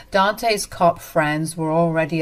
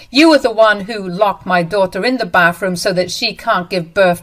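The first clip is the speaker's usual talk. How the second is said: angry; 4 dB louder than usual. Acted. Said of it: "I was so angry that I didn't keep quiet".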